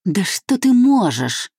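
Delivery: narrated wife crying out in despair; convulsive cry. A narrator's reading. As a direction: fling it out at the husband, breaking. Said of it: "судорожно выкрикнула она".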